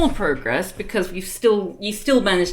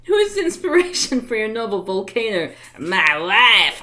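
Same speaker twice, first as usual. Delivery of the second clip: louder, punchy comic delivery; 2 semitones higher, 7 dB louder than usual. Acted. She reads the comic's interview in the voice from her head. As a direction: blurt the punchline. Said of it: "the voice that came in my head".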